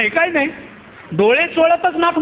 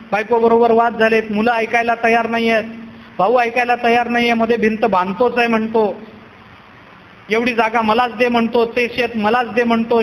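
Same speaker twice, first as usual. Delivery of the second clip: lower, level-toned litany of woes; complaining householder; 3 semitones lower than usual. Acted. Householder brings family quarrels to Nath Maharaj, monotone complaining. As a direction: reel off troubles on one monotone note. Householder reciting his troubles to the saint.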